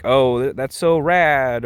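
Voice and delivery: a hint of skater drawl; a singer's skater lingo. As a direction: lightly imitate skater-kid enthusiasm, stretched slow. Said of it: "almost skater boy lingo".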